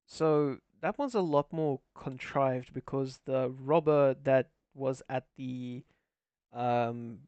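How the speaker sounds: crackling, distorted mic; clipping distorted mic. Real, not acted. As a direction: voice breaking up over a bad mic. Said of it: "your mic is crackling".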